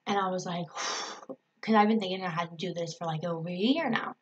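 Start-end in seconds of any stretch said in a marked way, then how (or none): 0.7-1.3 soft, voiceless exhale; long retold sigh; relieved sigh. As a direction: let the breath go as if unburdened. Retelling her relief.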